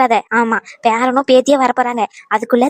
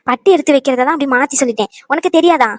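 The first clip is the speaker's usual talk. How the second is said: exasperated scolding. Acted. Grandmother scolding her clueless grandson, exasperated. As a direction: scold with exasperation, pitch jumping up.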